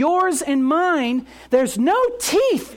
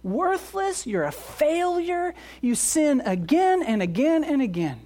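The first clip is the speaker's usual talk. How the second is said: accuser's voice; 4 semitones higher than usual. Acted. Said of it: "with this voice of saying".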